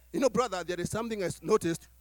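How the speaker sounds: low, quick, nervous mumble with a laugh; hesitant, giggly, hushed; timid hushed approach. Retold or imitated. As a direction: tiptoe into the correction, half-laughing. Timid confronting of a brother.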